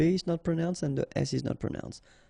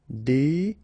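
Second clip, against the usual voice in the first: syllable by syllable; 4 dB louder than usual. Shown as a demonstration. French teacher demonstrating for learners, "décoratif" syllable by syllable.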